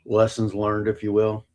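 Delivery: talking with food in mouth; words round a bite of food; mouth full. Real, not acted. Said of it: "Sorry, I got some in my mouth there".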